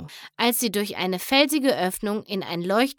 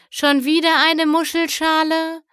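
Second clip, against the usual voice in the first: weary exasperation; 8 semitones higher, 5 dB louder than usual. Acted. Weary queen answers daughter.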